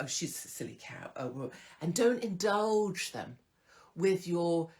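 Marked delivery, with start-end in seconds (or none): 0.0-1.5 mock whisper. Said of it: "don't act like".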